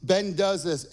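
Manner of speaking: normal talking voice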